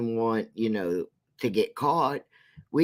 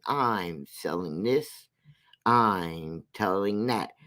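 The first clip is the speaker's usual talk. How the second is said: lower, slow mocking sales patter; low slow mock pitch; 5 semitones lower, slower than usual. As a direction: mimic her selling, lower and slower. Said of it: "has herself up there saying".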